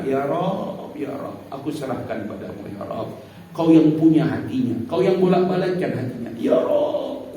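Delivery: hushed sincere prayer. Acted. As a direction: hand it over to God gently. Quiet surrendering prayer for child.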